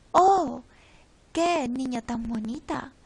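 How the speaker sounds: oh muy fuerte y agudo, luego admiración; admiring exclamation. Shown as a demonstration. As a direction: exclama con asombro ante la niña. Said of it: "oración exclamativa o interrogativa". (exclamación de admiración, oh fuerte)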